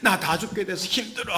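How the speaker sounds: high, mock-crying complaint; imitated tearful outpouring. Someone crying out their troubles, imitated tearful complaint. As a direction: whine it out as if crying. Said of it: "울면서 그냥".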